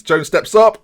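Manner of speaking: loud, high build-up; tense penalty call. Real, not acted. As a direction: announce the kicker with rising suspense.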